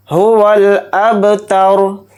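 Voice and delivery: अबतर with a bouncing echo on the silent बा; qalqala. Shown as a demonstration. Teacher demonstrating qalqala on बा, slow. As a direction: let the बा in अबतर bounce, then stop on रा. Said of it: "इसमें कलकला करेंगे".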